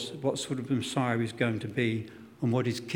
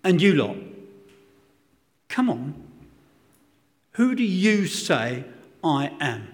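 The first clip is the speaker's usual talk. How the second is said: modern British Jesus. Retold or imitated. Jesus asks his disciples in today's casual British way, lightly voiced. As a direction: put it to them plainly, like a bloke today. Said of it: "it would come out something like this".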